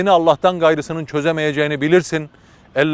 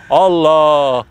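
a louder cry of Allah, torn out in shock; anguished cry; 5 dB louder than usual. Acted. Neighbour reads the certificate and cries out in shock. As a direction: cry out the name as if struck. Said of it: "diye bir feryat koparmış".

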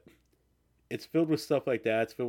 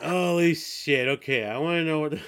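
whisper yelling; 6 semitones higher, 7 dB louder than usual. Real, not acted. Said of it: "you're gonna whisper yell at me".

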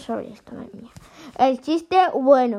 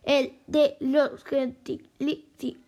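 robot lento y monótono; léelo despacio como un robot; voz de robot; slower than usual. Shown as a demonstration. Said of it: "me pone que lo habla así como robot". (voz robótica pausada)

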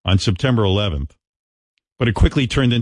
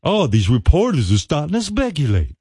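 mock outrage; 7 semitones higher than usual. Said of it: "Look at him all outraged".

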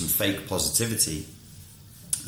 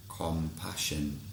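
slow, gentle emphasis; 5 dB quieter, much slower than usual. Shown as a demonstration.

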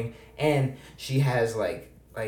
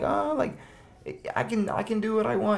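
mocking girly voice; 9 semitones higher than usual. Mocking a girl's OnlyFans excuse.

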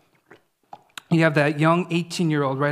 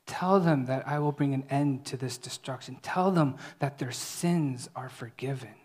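softer, half-whispered words of God; tender hush; 3 semitones lower, 6 dB quieter than usual. Acted. God telling Isaiah to speak tenderly, in a soft hush. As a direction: lean in and hush it like a secret mercy. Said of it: "he's telling Isaiah".

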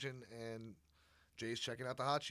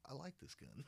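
laughing quote; 11 dB quieter than usual. Retold or imitated. Quoting K, laughing.

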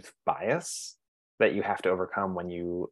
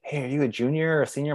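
put-on higher, quick teenage question; imitated students; 6 semitones higher, faster than usual. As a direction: mimic the kids asking, pitched up and fast. Students at high school ask.

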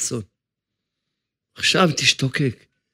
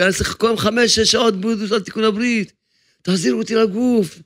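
a soul begging the angels, mildly raised and higher; the pleading soul; 5 semitones higher than usual. Acted. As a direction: plead to be sent back to the body, a touch higher. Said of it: "צועקת למלאכים". (נשמה מתחננת למלאכים, בקול מעט גבוה)

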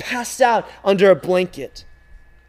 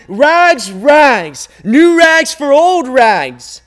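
loud, high call, drawn out slowly; crying out; 8 semitones higher, 10 dB louder, much slower than usual. A narrator's reading. Rag man calling through town, loud drawn-out cry. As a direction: call your wares to the whole street. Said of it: "The ragman cried out again".

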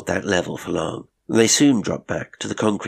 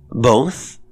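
louder, higher, rising question; deliberately loud; 5 semitones higher, 6 dB louder than usual. A narrator's reading. Governess repeats the cook's word, deliberately loud. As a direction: repeat it aloud to counter a whisper. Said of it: "in a voice deliberately loud".

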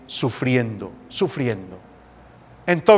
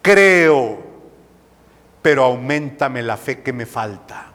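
prayerful; 4 semitones lower than usual. Shown as a demonstration. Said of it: "La oración de un padre hoy".

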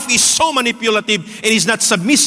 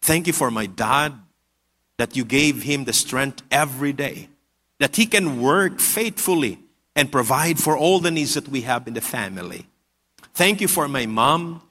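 put-on soft, lowered voice of a praying boy; 6 semitones lower, 6 dB quieter than usual. Little boy praying in his room, in a very soft voice. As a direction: pray quietly and low, as a small boy would. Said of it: "in a very, very soft voice, he uttered these words".

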